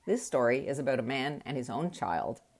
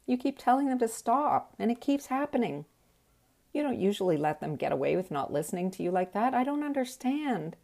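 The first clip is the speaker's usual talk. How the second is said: blubbering; 9 semitones higher, 3 dB louder than usual. Retold or imitated. Herself at the gas station to her boyfriend, high blubbering wail. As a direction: whimper it out through tears, pitched way up. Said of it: "I blubbered".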